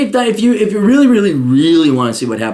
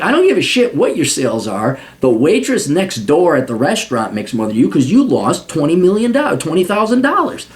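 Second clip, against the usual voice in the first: heated higher rant at a client; 6 semitones higher than usual. Retold or imitated. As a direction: tell him off hard. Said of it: "I'm like".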